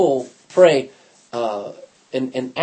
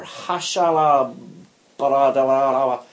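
imitated tongues phrase; 2 semitones lower, slower than usual. Recalls chanted tongues phrase.

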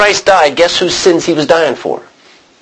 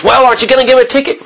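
indignant bystander; 11 semitones higher, much faster than usual. Retold or imitated. Bystander demands a ticket be given.

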